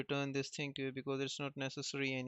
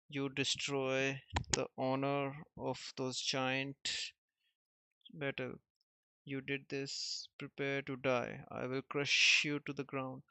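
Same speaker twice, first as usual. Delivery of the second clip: building angry threat, loudest at the end; furious threat. Acted. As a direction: swear to crush them, voice rising. Hero furious at villains.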